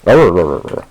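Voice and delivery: loud mock-British babble; bad British accent. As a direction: garble nonsense in a fake British accent. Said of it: "I can't do a, a random British accent".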